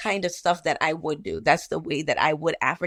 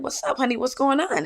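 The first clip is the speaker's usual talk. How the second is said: higher-pitched, concerned nurse; concerned check-in; 8 semitones higher than usual. Retold or imitated. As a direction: check gently on a hurting patient, voice lifted. Nurse checks on crying patient.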